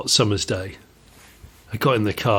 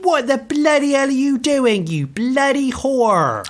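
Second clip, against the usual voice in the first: much higher, dragged-out imitation of the instructor yelling; yelled abuse; 13 semitones higher, slower than usual. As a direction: shout it out the window at the cyclist. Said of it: "he went".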